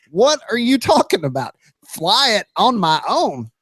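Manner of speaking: mock-incredulous, pitch lifted. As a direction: question it in mild disbelief. Own disbelieving reaction in a story.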